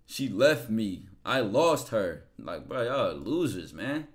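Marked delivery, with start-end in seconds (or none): 0.0-2.2 very slow, louder mopey mock lament; mock loser whine. Streamer mocks chat's losers, moaning slowly in mock sorrow. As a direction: drag it out like a pitiful loser. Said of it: "we don't talk like that".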